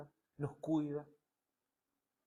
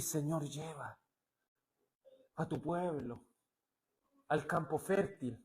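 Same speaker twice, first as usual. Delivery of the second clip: soft, low plea in short phrases; hushed prayer; 4 semitones lower, 9 dB quieter than usual. Acted. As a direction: pray it quietly, pausing between phrases. Models a pastor's prayer. (oración suave, en voz baja y pausada)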